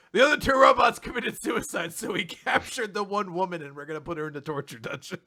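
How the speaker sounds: laughing mock retelling. Mocks joke while laughing.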